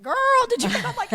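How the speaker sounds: very high, chatty shopgirl squeal; hammed-up high-pitched impersonation; a singer's speaking voice. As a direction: exclaim like an excitable grocery clerk. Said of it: "she sounds like somebody working at a grocery store".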